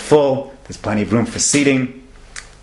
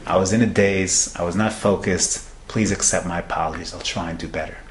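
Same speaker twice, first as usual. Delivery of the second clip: softer and lower, subdued apology; a widowed father barely holding it together, fading; grieving father; 3 semitones lower, 4 dB quieter than usual. Acted. Widowed father apologizing to an annoyed passenger, quiet and subdued.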